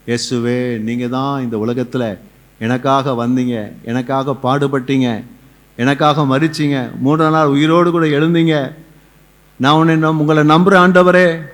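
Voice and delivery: slow, measured confession of faith; led prayer. Real, not acted. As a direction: build from subdued to fervent. (நிதானமாக உயரும் விசுவாச ஜெபம்)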